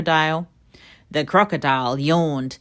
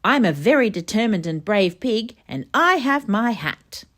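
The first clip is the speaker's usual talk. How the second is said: higher, louder proud piglet; 5 semitones higher, 4 dB louder than usual. Acted. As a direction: boast like a proud little pig. Proud pig boasting.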